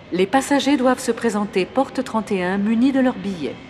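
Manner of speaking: formal public address announcement; airport announcement. Acted. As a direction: announce the delay to the waiting passengers. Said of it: "À l'aéroport".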